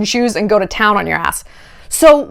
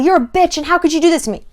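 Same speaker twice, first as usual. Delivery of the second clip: higher, mock-indignant accusation with no added volume; retold anger; 7 semitones higher, faster than usual. Cheater turning on the woman who confronted him, mock indignation. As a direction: lightly imitate an instant angry comeback. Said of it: "immediately angry".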